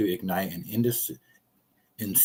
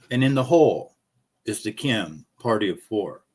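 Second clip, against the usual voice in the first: lightly voiced tee-box announcer, a bit louder; golf course announcer; 2 semitones higher, 3 dB louder than usual. Retelling how the golf starter announced the groups, lightly mock announcer. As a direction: call the groups out like the starter over the PA. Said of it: "that is exactly what they said".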